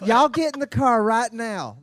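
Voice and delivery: slow, drawn-out Southern order; Southern accent. Pretend. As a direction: drag it out like a Southern wife calling you to the car. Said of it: "That's hot".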